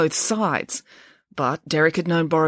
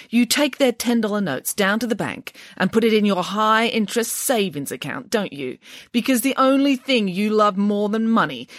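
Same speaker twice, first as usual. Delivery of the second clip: Nanny Piggins voice; 4 semitones higher than usual. Acted. Nanny Piggins needling Mister Green.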